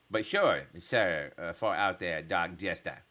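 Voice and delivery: lightly put-on olde-English voice; mock roleplay talk. Streamer playing along with Dark Jester, mock roleplay voice. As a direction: answer a viewer like a roleplaying knight, half-heartedly. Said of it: "I just talk like that?".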